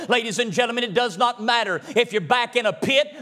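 rising preaching cadence, repeated refrain; a preacher building to a rousing close; building sermon climax. Real, not acted. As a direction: drive the refrain home again and again.

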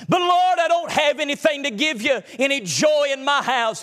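believer pleading with God. Acted. Anointed pleads with the Lord.

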